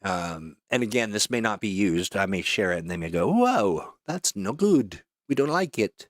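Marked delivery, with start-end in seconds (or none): 3.3-6.1 high-pitched mock client objection; mock disapproval. Client reacting to a shared script, mock dismay. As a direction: exaggerate a client turning it down, pitched up.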